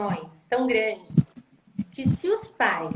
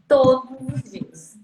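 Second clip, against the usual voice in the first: "Todos os dias" slow and louder, each word weighted; stress on TODOS OS DIAS; 7 dB louder, slower than usual. Real, not acted. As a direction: hammer home "Todos os dias". Repeats phrase for emphasis. (ênfase lenta e forte em "Todos os dias")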